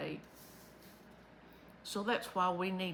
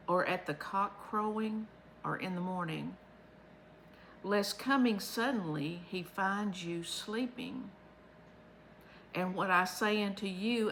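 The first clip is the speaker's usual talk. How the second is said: scripture reading. Acted. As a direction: lay each line of the old verse out carefully. Reads Bible verses aloud.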